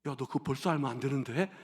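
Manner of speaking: serious uncle. Retold or imitated. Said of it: "정색을 하시면서".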